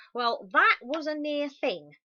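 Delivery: father relieved after the scare; Dad's relieved voice. A narrator's reading. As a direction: let the relief out slowly. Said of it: "said Dad later".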